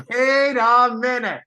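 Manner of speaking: rising, laughing wait a minute; giggling wait a minute; excited realization. Real, not acted. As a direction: catch your breath in delight. Notices something exciting.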